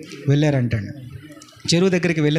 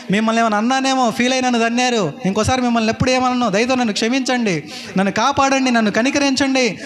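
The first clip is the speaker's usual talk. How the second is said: desperate cries for help; 5 semitones higher than usual. Retold or imitated. Drowning youth begs the pastor from the pond, desperate rising cries. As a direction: beg the pastor to save you as you sink. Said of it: "గట్టి గట్టిగా కేకలేస్తున్నాడు".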